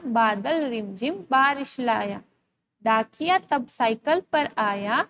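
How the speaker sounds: put-on slow, measured chant of a children's rhyme; reading a rhyme aloud. Teacher reads a rhyme to young students, slow and sing-song. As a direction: read each line slowly and evenly, like a classroom rhyme. Reads rhyming sentences to class.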